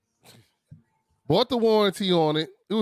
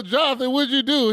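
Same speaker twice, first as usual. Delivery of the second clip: retold dismay; 9 semitones higher than usual. Father confronting son in retold story.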